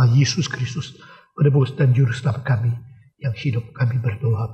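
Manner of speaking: earnest, steady pastoral prayer; closing prayer. Acted. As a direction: pray sincerely on behalf of the congregation.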